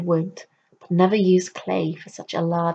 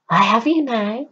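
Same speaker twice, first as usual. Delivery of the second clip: crone's triumph; 5 semitones higher, 6 dB louder than usual. Acted. Crone catching him out.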